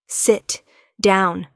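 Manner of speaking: commanding. Acted. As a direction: command her to sit. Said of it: "there's command in his voice".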